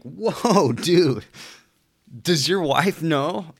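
high, loud, slow mock disbelief; shocked call-out to a married commenter. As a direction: gasp at the scandal, then drag it out. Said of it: "And you're like".

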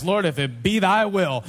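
mock-formal King James phrasing; mock official. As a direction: intone it as if it were official. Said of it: "It makes it more official".

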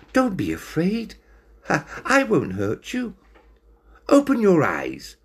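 gentle reassuring cat voice; kind and gentle. Acted. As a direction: soothe the scared cat kindly. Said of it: "laughed kindly".

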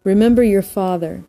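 measured recital with pauses between lines; poem reading. Real, not acted. Host reads a poem to listeners to unwind, measured poem reading. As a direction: read verse deliberately, leaning on each opening word.

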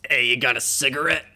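cool beachy ape asking for a smoke; hammed-up beach bum; Funky Kong voice. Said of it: "give me your Funky Kong voice".

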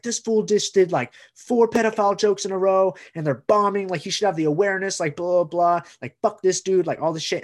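mildly heated imitation of an irate boss; imitated angry rant. Club owner ranting to Mike about the jokes, imitated angry complaint. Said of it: "yelling at Mike like this".

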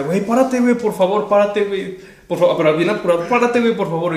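a scared driver begging him to stand up; frightened pleading. Retold or imitated. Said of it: "bien asustado me decía".

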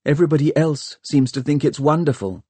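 bitter girl, voiced lightly; bitterly. A narrator's reading. Catherine complains to the historians, mildly bitter. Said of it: "said Catherine bitterly".

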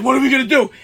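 high, loud retold panic; comic alarmed question; freaking out. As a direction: plead for a plan, acted out. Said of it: "we're freaking the fuck out".

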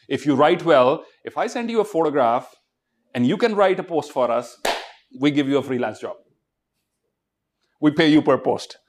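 usual speaking voice

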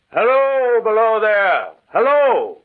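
shouting down from the embankment; calling out. Acted. Narrator on a ridge calls down to the man by the tracks, loud. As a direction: call out loud and high to a stranger far below. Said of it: "I cried".

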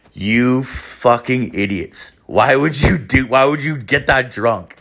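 mock exasperated scolding; exasperated instructor. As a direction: imitate a teacher at his wits' end. Instructor shakes head in disbelief.

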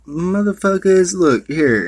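high, loud, cocky command; mock commanding yell. Jesus to his panicking followers, loud hammed-up command. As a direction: bark it out like a showman calming the sea.

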